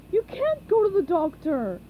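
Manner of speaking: urgent Patrick. A narrator's reading.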